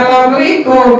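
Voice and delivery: clipped lazy Assalamualaikum; neighbour's careless salam; mock sloppy greeting. Shown as a demonstration.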